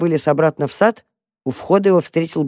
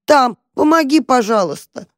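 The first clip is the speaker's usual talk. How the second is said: high, loud desperate begging; trapped cat yelling to the mouse for help; loud plea; 8 semitones higher, 4 dB louder than usual. Acted. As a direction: shout for help.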